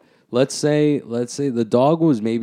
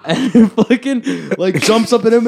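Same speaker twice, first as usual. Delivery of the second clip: high, loud laughing retelling; 10 semitones higher, 6 dB louder than usual. Real, not acted. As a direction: laugh while telling it. Laughing through the dog story.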